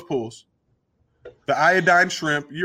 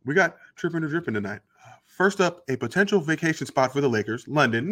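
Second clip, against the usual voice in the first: Hollywood voice. Shown as a demonstration. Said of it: "I'm gonna read it in my Hollywood voice".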